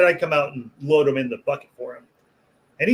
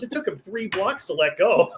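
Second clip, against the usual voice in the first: laughing retelling; 5 semitones higher than usual. Retold or imitated. Punchline told through laughter.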